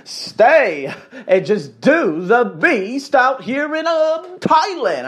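slow, high, drawn-out broken English; exaggerated broken-English impression, very slow. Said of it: "He said it in broken English".

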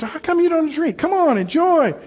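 high-pitched imitation of a Hispanic accent; pushy, high Hispanic-accented host; Hispanic host's accent. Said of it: "Hispanic man".

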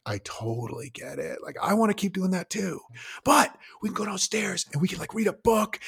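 put-on coaxing a kid upstairs with excitement; hyping it up. Shown as a demonstration. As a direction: make the next thing sound fun. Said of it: "you try to get it exciting".

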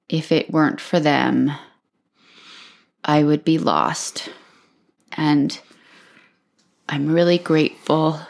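holding back tears; crying, worn out. Real, not acted. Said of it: "I can't stop crying this podcast".

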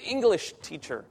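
lightly imitated broken English; simple broken English for a new learner. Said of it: "in my best broken English".

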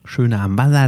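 leicht norddeutsch gefärbt, gespielt; norddeutscher Slang. Pretend. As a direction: ein Hauch norddeutscher Dialekt. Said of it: "ich wollte einfach nur den nordischen Slang reinbringen". (norddeutscher Akzent, angedeutet)

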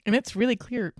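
talking through hiccups; hiccuping between words. Real, not acted. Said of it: "I, like, have the hiccups".

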